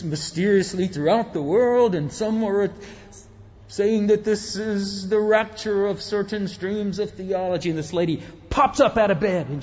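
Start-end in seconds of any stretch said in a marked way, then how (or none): 0.0-7.7 radio announcer. Retold or imitated. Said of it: "this voice comes on".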